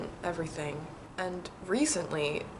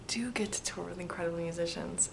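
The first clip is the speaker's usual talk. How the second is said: whisper; 7 dB quieter than usual. Real, not acted. Whispered answer.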